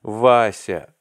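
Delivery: loud despairing call of the name; desperate cry. A narrator's reading. Arkady calls Vasya again, loud and despairing. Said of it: "вскричал Аркадий Иванович в отчаянии".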